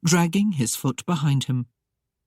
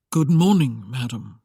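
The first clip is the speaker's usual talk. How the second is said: sighed greeting; 3 semitones lower than usual. Acted. Masked lord greeting his young bride, sighed and fading. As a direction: sigh it through a mask. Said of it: "the voice sighed through the opening".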